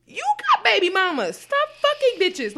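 high, heated comeback; angry retort. Real, not acted.

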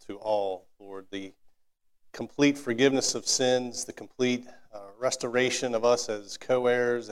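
heartfelt closing prayer, unhurried. Real, not acted. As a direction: pray sincerely over the congregation.

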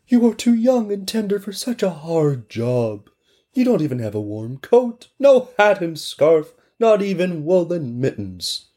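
high put-on voice, slowing on the list; pitying neighbors. Neighbors pitying the orphan girl, high and pleading.

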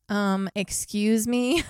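slow, drawn-out polite protest; Becky voice. Retold or imitated. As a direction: imitate a huffy friend. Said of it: "I'm gonna try and be Becky".

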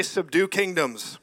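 slow, deliberate Subdue kingdoms; call to repeat. Shown as a demonstration. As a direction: stretch out Subdue for the echo. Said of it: "Everybody say".

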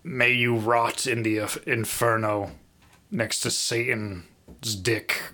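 slow solemn royal curse; laying a curse. Pretend. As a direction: pronounce it like a doomed king. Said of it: "I'd be like".

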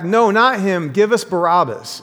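mild mock shout. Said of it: "And they shouted back".

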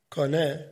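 Koine said as KAH-neh, stressed first; Greek word said slowly. Shown as a demonstration. Teacher spelling out the Greek Koine as kah-neh. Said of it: "the word for reed is Strong's number koine".

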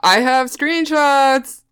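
mock-dramatic slow announcement; dramatic reveal. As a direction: savour it like a bombshell.

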